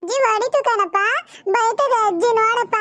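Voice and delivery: tattle through put-on tears; acted tearful complaint. Girl tells father grandmother hit her, whining tearfully. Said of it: "ಯಾಕ್ ಹೊಳ್ತಾ ಇದೀಯ".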